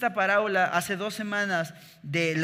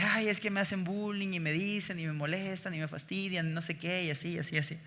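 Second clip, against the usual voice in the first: mild mock whimper, softer, a child complaining; whiny crying kid; 2 semitones higher, 4 dB quieter than usual. Boy complaining to his mother about bullies, mock whine. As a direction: play a bullied kid whining to mom, lightly. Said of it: "llegó un día llorando".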